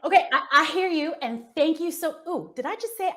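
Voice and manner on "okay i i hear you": unplanned light Southern accent; slight Southern accent. Real, not acted. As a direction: let a touch of Southern slip into "I hear you". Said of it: "why did the Southern come out".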